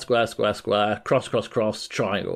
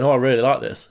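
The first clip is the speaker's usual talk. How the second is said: deadpan, slightly lowered delivery; understated deadpan enjoyment; Kiryu, straight-faced; 3 semitones lower, faster than usual. Retold or imitated. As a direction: say it with a straight face. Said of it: "Kiryu's straight face is going".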